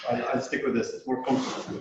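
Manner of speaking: muffled behind a face mask; through a face mask. Real, not acted. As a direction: speak through a cloth mask. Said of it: "if you can hear me through this mask".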